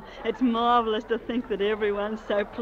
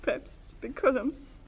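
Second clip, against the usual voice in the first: choked up thanking everyone at her welcome home; tearful speech; 3 semitones higher, 5 dB quieter than usual. Acted. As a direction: voice catching with tears, softer, pausing. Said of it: "I don't know why I'm crying".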